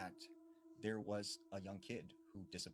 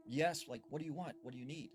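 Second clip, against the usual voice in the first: a higher, sharper call through a door; mock calling out; 5 semitones higher, 3 dB louder than usual. Girl to strange boy from behind the front door, calling out. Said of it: "calls out to him from behind the door".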